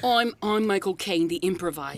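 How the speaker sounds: put-on British actor voice; playful bad impression of the actor; Michael Caine. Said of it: "how to do a Michael Caine".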